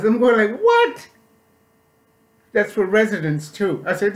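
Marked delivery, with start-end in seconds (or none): 0.6-1.1 shocked what. Retold or imitated. Told the price, shocked.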